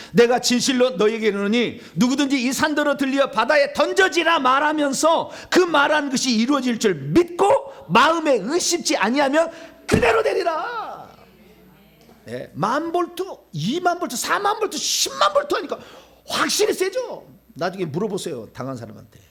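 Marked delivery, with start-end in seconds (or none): 0.1-11.2 high, loud declamation; ringing pulpit proclamation, stretched at the end; forceful scripture reading. Real, not acted. 12.3-17.3 escalating high-pitched count; rising excitement. Real, not acted. Escalating voltage counts, preaching excitedly.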